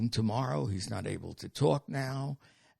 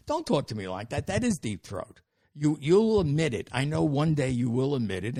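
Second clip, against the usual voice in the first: mock indignant rant; 3 semitones higher, 7 dB louder than usual. Yelling back at the dead phone.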